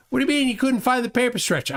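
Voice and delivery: mock outrage at the lost stretcher; exasperated boss. Boss snapping at Ray for not finding the stretcher.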